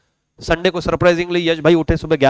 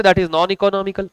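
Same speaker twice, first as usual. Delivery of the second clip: slow definition; 5 dB quieter, much slower than usual. Shown as a demonstration. Teacher spelling out the term.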